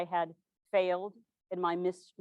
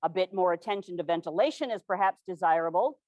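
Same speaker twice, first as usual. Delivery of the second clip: complacent; 3 semitones lower, 4 dB louder than usual. Retold or imitated. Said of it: "complacently saying".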